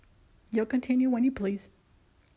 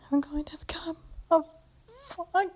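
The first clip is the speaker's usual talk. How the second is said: breaking off in pleasure; 5 semitones higher than usual. Acted. Close to climax.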